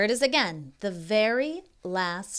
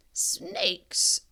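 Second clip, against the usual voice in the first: spooky breathy whisper; 9 semitones higher, 3 dB louder than usual. Acted. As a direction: whisper it to scare. Grandfather says snakes, spooky.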